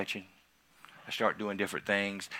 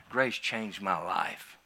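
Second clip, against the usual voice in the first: slow emphatic repeat; 3 semitones lower, 4 dB quieter, much slower than usual. Shown as a demonstration. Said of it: "repeated line said slowly".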